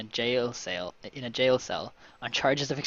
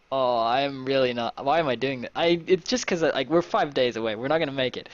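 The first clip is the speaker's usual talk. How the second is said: louder, worked-up aside; exasperated; 5 dB louder than usual. Real, not acted. Player fears missing the deadline, exasperated. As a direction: protest your own choice, louder. Player reacts to own risky choice.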